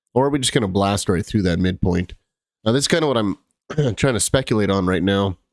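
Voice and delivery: speaking short of breath; short of breath, feeling unwell. Real, not acted. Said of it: "excuse me for the short of breath".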